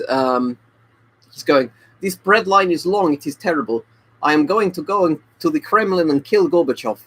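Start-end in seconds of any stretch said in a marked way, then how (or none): 2.0-7.0 put-on Russian accent. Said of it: "I'll do the accents".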